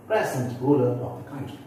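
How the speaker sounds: "present" with PRES strong; stress on first syllable. Shown as a demonstration. Teacher rereading the adjective example, first-syllable stress on "present". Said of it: "these are the way the differences comes".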